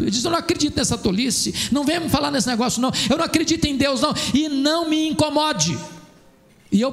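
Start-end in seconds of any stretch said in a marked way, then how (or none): 0.3-5.8 higher, quick, indignant dismissal in a retelling; retold angry rebuff. Cadet rejecting a seminarian's question about Jesus, mock indignation. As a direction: mildly imitate an offended man brushing someone off. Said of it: "ele me insultou muito, ele blasfemou muito".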